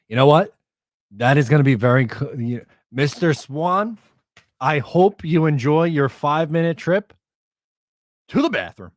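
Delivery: loud, gleeful taunt at the player; loud mocking rant. Real, not acted. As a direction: crow it out loud like you are roasting him. Mocking a traded player on stream.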